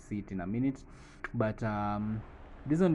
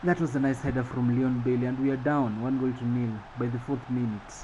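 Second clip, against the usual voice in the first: raised, punchy match commentary; play-by-play recap; 3 semitones higher, 4 dB louder than usual. Acted. Commentator reviews the header that put us down, lively play-by-play. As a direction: recap the goal for the viewers.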